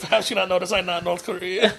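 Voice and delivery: joking, put-on Asian accent; fake Asian accent. Comic posing as a North Korean, fake Asian accent. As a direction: play it in a mock Asian accent. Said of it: "talking in fake Asian accent".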